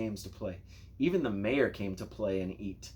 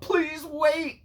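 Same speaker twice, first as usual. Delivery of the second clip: high, louder call of please wait; hurried high call; 7 dB louder than usual. A narrator's reading. Griddle man calls to a waiting customer, high and urgent. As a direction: call out high to hold the crowd back. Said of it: "he said to someone holding".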